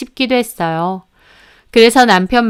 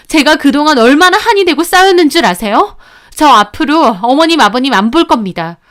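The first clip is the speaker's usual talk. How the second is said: daughter-in-law cutting off her in-laws, raised and bitter; pent-up outburst; 4 semitones higher than usual. Acted. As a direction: let years of resentment burst out. Bursting out at in-laws.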